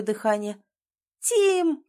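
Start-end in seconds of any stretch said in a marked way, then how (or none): 1.2-1.8 high, loud call of his name; a loud, hopeful shout. A narrator's reading. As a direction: call out to him across the hall. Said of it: "кричу я снова".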